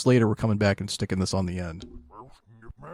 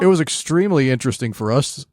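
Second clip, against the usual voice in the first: mock enthusiastic; 6 semitones higher, 8 dB louder than usual. Joking about boring detail.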